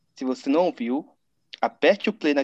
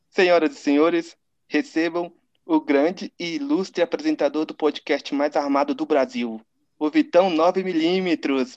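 grand entrance announcement. Acted. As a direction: announce the guest like a show host. Host introduces guest with fanfare.

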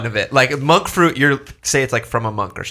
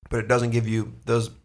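talking while chewing; words round a bite of cookie; mouth full; 4 dB quieter, slower than usual. Real, not acted. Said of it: "sorry, guys. I'm also eating another".

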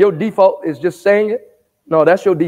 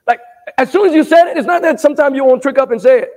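high-pitched, quick preaching burst; fired-up preaching; 6 semitones higher, faster than usual. Real, not acted. Preacher correcting the congregation on slips of speech, fired-up preaching. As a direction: press the point fast, pitched high. Preacher getting worked up mid-sermon.

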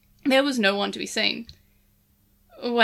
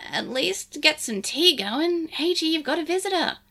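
gruff; 6 semitones higher than usual. Acted. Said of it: "Lugumon said gruffly".

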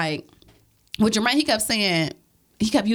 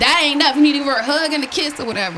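mock firm brother; 3 semitones higher, 5 dB louder, faster than usual. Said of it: "And then Jermaine like".

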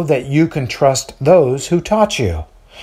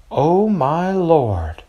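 astonished gasp; 4 semitones higher, much slower than usual. A narrator's reading. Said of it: "to hide her astonishment".

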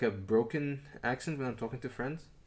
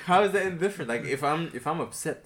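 raised, high-pitched fast complaint; retold indignation; 6 semitones higher, 7 dB louder, much faster than usual. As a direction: act out being upset at the manager. Retold indignant retort to security manager.

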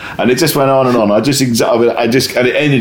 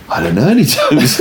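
laughing through remembered panic, higher; panicked laugh; 8 semitones higher than usual. Retold or imitated. Comic recalls forgetting every joke, laughing. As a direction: laugh at his own blank mind.

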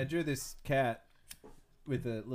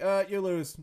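comic voice; 8 semitones higher, 10 dB louder than usual. Retold or imitated. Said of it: "It's Neil".

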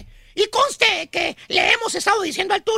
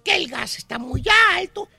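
mock complaining; 4 semitones lower than usual. Two señoras chatting about household woes, mock complaining. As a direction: drag out each grievance, lightly mocking. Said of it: "Sí, quejándose".

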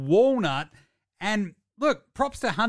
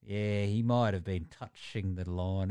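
mocking referee; 8 semitones lower, 5 dB quieter, slower than usual. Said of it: "it's very clear, like".

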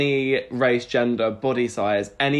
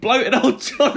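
mocking high voice; 11 semitones higher, 4 dB louder than usual. Mocking Johnny Depp.

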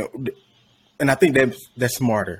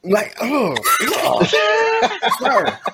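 mock Joker voice; 13 semitones higher, much slower than usual. Mocking Joker's voice.

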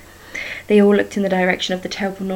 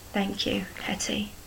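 a much softer, breathy whisper; faint whisper; 8 dB quieter than usual. A narrator's reading. Agnes whispering farewell to Henrietta as she fades, faint whisper. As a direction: fade into a whisper as you leave. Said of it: "the faint whisper of a woman".

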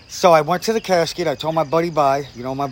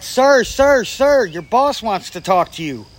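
calling out; 6 semitones higher, slower than usual. Retold or imitated. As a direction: hail the cop across the yard, urgent. Mom running out calling cop.

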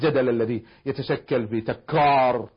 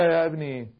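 calm reply. Retold or imitated. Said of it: "فقلت له".

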